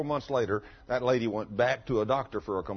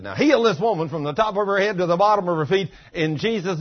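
commanding prayer; 6 semitones higher, 7 dB louder than usual. Retold or imitated. Praying healing over woman.

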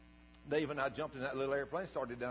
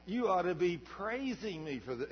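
God's voice; 4 semitones higher than usual. Retold or imitated. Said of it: "hearing God sitting there saying".

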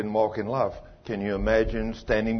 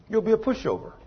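emphatic repeat; 10 semitones higher than usual. Real, not acted. Preacher repeating the warning to the congregation, high emphatic repeat. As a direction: lift the whole line up to drive it home.

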